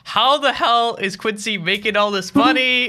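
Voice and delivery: imagined suspicious mom. Retold or imitated. Host voicing the mother wondering about the money, slow and puzzled. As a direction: drag it out like a baffled parent.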